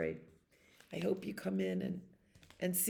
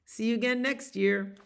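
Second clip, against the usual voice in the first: put-on child's goodnight; 3 semitones higher, 3 dB louder than usual. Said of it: "That's what he says when".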